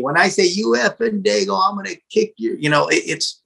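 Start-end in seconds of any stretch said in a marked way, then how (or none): 0.4-2.6 mildly acted hostility; hostile insult. Shown as a demonstration. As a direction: demonstrate the slur as a threat. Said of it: "it's a little different".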